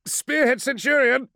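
high, loud sudden call; excited exclamation. Acted. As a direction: blurt it out urgently. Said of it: "uncharacteristically excited exclamation".

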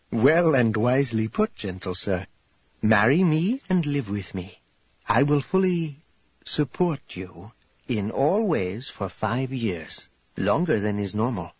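lightly voiced, formal and approving hostess; gracious formal bride-to-be. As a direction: set out a marriage offer with measured courtesy. Voices Karya making her offer.

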